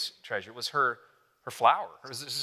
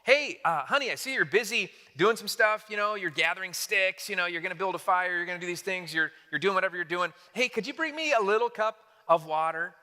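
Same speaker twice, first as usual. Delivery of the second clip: casual sweet-talk, a touch higher; lightly voiced husband asking a favor; imitating a demanding husband; 3 semitones higher than usual. Husband pestering his busy wife, lightly mocked. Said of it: "if I treated my wife this way".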